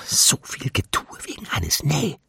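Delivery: high, hushed mockery; mocking. A narrator's reading. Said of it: "klang eher spöttisch als unwirsch".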